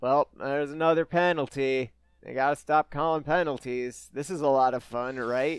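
bored, offhand, rattled-off commentator delivery. Imitating an announcer calling a game, done in a very blasé way. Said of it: "in a very blase way".

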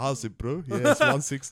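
loud, swooping, rough, bad Samoan accent. Imitating a rugby teammate answering how much he benches: bad Samoan accent as Big Mo. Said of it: "I can't do a Samoan accent".

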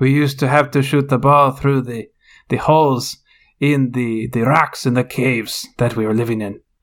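put-on Transylvanian vampire-style accent. Imitating a vampire manager in the locker room: Antonio Conte impression as vampire. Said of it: "That's my, uh, Antonio Conte impression".

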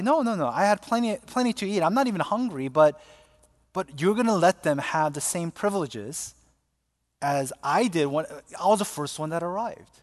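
plain

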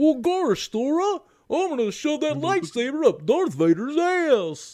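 goofy cartoon dog voice. Taking turns doing cartoon voice impressions, now a goofy cartoon dog voice. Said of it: "Garsh indeed".

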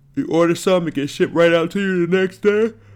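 words stretched through a yawn. Reading the show's sponsor ad to listeners, the host keeps going: yawning while talking. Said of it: "I'm yawning".

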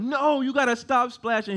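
high-pitched hollering. Telling a river trip story, the speaker shouts at someone splashing: retelling a yell. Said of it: "I'm yelling at Cooper like".

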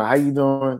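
put-on voice switched to mainstream-sounding speech. Retelling a traffic stop, greeting the cop: imitating own put-on white voice. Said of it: "I turn on my white voice".

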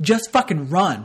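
mock yelling, shouting. Speaker re-enacts watching the show, retelling yelling at the tv. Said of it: "And I'm just yelling at the TV".

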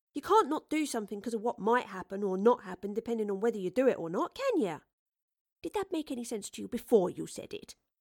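plain reading voice

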